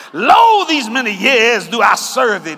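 lightly hammed-up pious churchgoer reminding God of his service; churchy voice. Preacher voicing the churchy brother complaining to his father, mock pious. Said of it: "watch how the churchy boy sounds".

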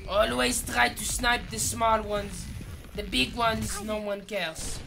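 mock-French sniper master; French-accented, self-assured tutor; put-on French accent. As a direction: lecture on sniping in a French accent.

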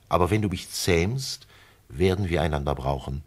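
a lonely fox explaining, earnest. Acted. The fox explains taming to the prince, lightly voiced.

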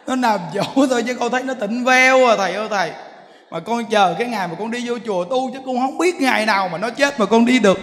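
half-laughing, mock-whining grievance; laughing complaint. Woman complains laughing about husband. (giọng vừa cười vừa than thở)

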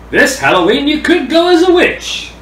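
high witch voice. Acted. Announcing the witch costume.

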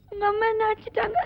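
tearful complaint; crying. Acted. Girl complaining to the son, crying. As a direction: whine it through tears. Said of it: "என்ன செல்லம்மா அழுதுட்டு வர்ற?".

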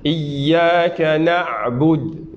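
Iyyaka na'bud drawn out with a clear ayn; slow chant; very slow recitation. Shown as a demonstration. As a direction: recite it for students. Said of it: "ya ayn".

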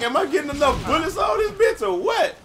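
high mock yell at the screen; retold yell. Gamer retelling his fight, yelling the question at the enemy. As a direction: bark it out like mid-firefight frustration. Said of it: "I was like".

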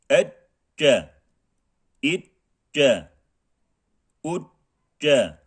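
each syllable drawn out, stressed hamza then a falling end; slow, careful model syllables for students; recitation drill. Shown as a demonstration. Teacher models Arabic syllables for the class, slow and drawn out. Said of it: "Tekrar okuyalım".

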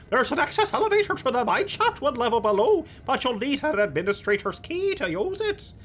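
laughing through a high character voice; high put-on voice breaking up with laughs; high voice cracking into laughter. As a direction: try to hold the NPC voice while giggling. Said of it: "maintain this voice much longer".

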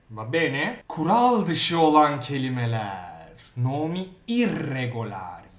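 usual speaking voice

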